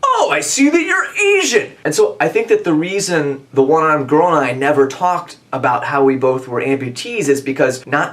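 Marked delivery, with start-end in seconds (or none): 0.0-1.7 mock awkward remark. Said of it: "obligation to say".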